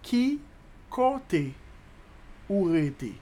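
"Qui", "côté", "ou rete" apart, starting high; long pauses between chunks; slow breakdown. Shown as a demonstration. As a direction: dictate it piece by piece. Teacher breaks Creole question down.

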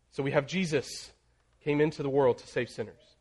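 Jesus lifted and leaned on, the rest of the verse easy; stress on Jesus. Shown as a demonstration. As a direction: open with weight on the word Jesus. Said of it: "each time you're putting emphasis on a different word".

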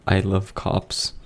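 said without closing the lips; lips not touching. Shown as a demonstration. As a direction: keep lips apart while speaking. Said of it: "without touching your lips".

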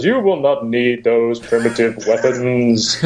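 slow, deep godlike alien voice; ultra low rumble. Retold or imitated. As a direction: boom it out like a solemn alien god. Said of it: "It's always a deep rumbling voice that says".

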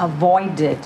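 "avoided" in three syllables, a-VOY-did; added -ed syllable. Shown as a demonstration. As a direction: model "avoided" with the ending fully voiced as its own beat. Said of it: "สองต้องเพิ่มก็ที เพิ่มพยางค์".

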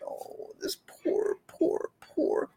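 hushed, whispered pitying coo; overdone pitying whisper; mock pity. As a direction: pity them in a syrupy hush. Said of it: "people do it all the time".

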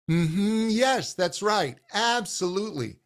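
bright, eager agreement; enthusiastic. Shown as a demonstration. Coach demonstrating enthusiastic agreement from the optimal pitch. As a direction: say it with enthusiasm from the buzzy spot. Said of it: "say something enthusiastic".

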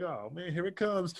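mock groan to yourself; reluctant dread. Wrestler bracing for what he didn't want to do, reluctant. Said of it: "'cause I didn't want to".

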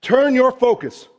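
high, loud "Hey, stop it", then a slow firm "Turn your focus"; firm call to stop. Retold or imitated. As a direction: cut him off and turn him around. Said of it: "especially when it's Jesus going".

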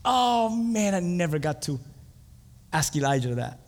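disappointed Peter. Acted. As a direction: whine over the missed chance, deflating. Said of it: "I wonder what Peter said".

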